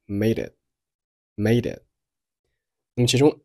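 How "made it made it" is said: "made it" joined as "may-dit"; linked sounds. Shown as a demonstration. Teacher demonstrating linking, "made it" as one word. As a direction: run the d of "made" into "it". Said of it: "made和it连读成了".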